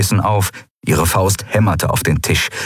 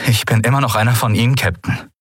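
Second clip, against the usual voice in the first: half-steady voice; 4 semitones higher, faster than usual. Acted. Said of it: "mit halbwegs fester Stimme".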